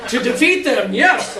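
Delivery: high, laughter breaking through the words; laughing reply. Acted. Uncle confirms the plan to his nephews, laughing. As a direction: answer while still laughing.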